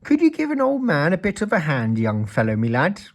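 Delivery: put-on high, loud old man's call; old man calling to Mister Mean. A narrator's reading. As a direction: call out across the garden. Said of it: "called out".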